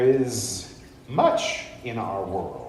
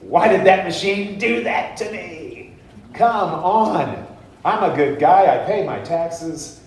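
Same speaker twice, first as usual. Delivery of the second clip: loud, higher indignant whine; hammed-up protest, louder and higher; mock victim rant; 6 semitones higher, 6 dB louder than usual. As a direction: play the wronged good citizen. Rant at vending machine.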